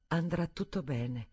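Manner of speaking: slow, gentle reassurance; reassuring. Acted. Stephanie calming nervous Daniel, slow and reassuring. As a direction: soothe him softly. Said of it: "per rassicurarlo".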